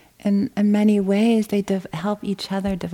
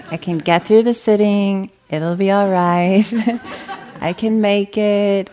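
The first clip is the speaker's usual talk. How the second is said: louder, with a laugh breaking through; laughing self-talk; 2 semitones higher, 5 dB louder than usual. Pretend. Meditator coaxing herself through the sitting, laughing. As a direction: cheer yourself on through a chuckle.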